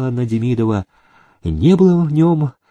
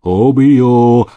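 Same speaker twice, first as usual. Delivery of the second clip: louder furious threat; mean it, fist raised; threatening cry; 6 dB louder than usual. Acted. Groom raising his fist at the housekeeper. Поднял кулак Митька.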